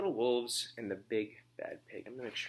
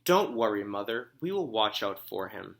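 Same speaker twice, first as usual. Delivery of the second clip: bright burst, louder on don't worry; eager promise; 6 dB louder than usual. Acted. Little wolves promising their mother, read aloud to class. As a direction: reassure mother with gusto.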